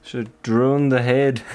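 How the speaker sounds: clumsy mock Scottish on drawn the head; light put-on Scottish; bad Scottish accent. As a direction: try a Scottish lilt and miss a bit. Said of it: "I don't have a very good Scottish dialect".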